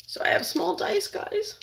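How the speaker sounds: hushed whisper over the cutting board. Real, not acted. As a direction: breathe it out like a secret. Whispering over the chopped onion.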